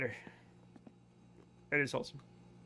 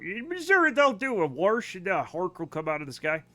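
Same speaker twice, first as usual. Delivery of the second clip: put-on Missouri accent. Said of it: "Why do you sound like my neighbors".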